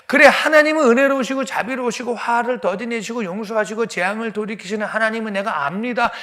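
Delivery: high, loud heated argument with God; angry pleading. Acted. Jonah arguing with God to destroy them, angry.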